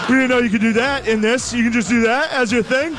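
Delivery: high, laughing astonished crowd; mock crowd amazement. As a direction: gasp it out in delighted shock. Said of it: "the whole crowd was like".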